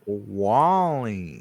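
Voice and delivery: robot voice, drawn out and falling. Shown as a demonstration. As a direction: say it like the little robot. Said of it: "You gotta say it like the robot".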